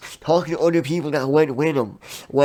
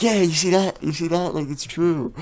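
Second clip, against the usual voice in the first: mock rowdy fan; 4 semitones higher than usual. Imitating the Irish fan.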